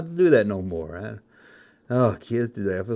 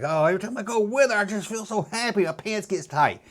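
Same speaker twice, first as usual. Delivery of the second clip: higher, quick giddy gush; giddy lovestruck; 7 semitones higher than usual. Retold or imitated. Lovestruck teen boy telling about his girlfriend, giddy.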